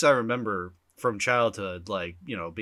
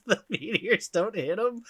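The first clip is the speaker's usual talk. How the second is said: laughing; 8 semitones higher than usual. Real, not acted. Laughing while describing absurd plot.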